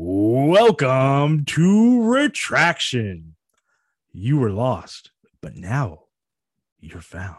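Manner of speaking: eerie put-on voice, very slow and swooping. Trying out a welcome line for Retraction, creepy voice. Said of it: "Is that creepy enough?".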